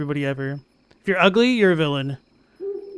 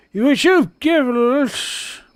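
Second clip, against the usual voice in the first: drowsy, slowing to a stop; fading as the drug hits; sedated; 5 semitones higher, much slower than usual. Acted. Drugged by tea, fading.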